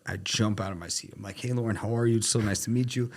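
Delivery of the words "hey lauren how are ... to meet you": higher, gushing hello; retold over-keen welcome; eager greeting. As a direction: greet a big client you suddenly want to impress. Retold eager jump to greet client.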